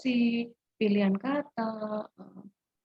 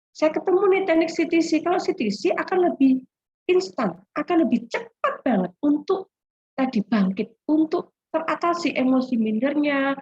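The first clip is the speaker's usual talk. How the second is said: excited; 4 semitones higher, 4 dB louder than usual. Real, not acted. Excited about the CTC technique.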